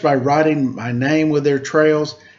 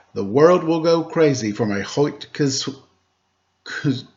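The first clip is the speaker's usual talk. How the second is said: 1 stumbling. Acted. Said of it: "My mouth isn't working".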